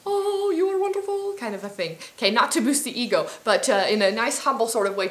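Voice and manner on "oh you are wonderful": high, sugary praising voice; cheerleader inner voice. Acted. The retrained inner voice cheering her on, high and sweet. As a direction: gush like your own cheerleader. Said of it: "retrain and reharness that little voice".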